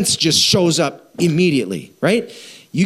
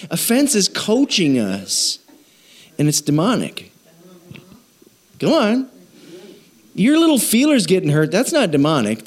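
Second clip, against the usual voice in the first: ordinary talk, nothing marked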